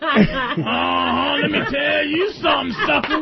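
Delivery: mock sassy woman. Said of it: "this little kitty voice".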